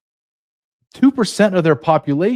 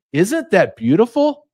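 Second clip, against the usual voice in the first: sarcastic gushing; 7 semitones higher than usual. Pretend. Sarcastic mock admiration.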